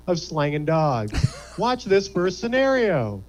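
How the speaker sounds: chipper corporate narrator; training video narrator. Acted. Narrator welcoming new hot dog stand hires, chipper corporate read. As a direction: read it like a cheesy staff training tape.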